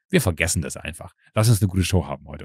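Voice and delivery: low, soft, forgiving reassurance; retold conciliatory line through a broad grin; Kai Pflaume. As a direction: let it go, quietly and kindly. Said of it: "hat ganz breit sein Kai-Pflaume-Grinsen aufgesetzt".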